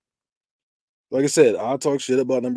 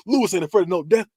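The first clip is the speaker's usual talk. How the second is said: Lewis; 6 semitones higher, faster than usual. Retold or imitated. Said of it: "he's talking to third person too".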